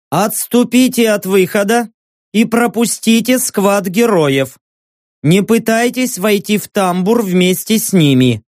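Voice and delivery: lightly voiced flat loudspeaker; mechanical announcement. Hidden loudspeaker orders crowd aside, mild mechanical voice. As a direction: read it like an emotionless machine. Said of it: "механическим, бесстрастным голосом".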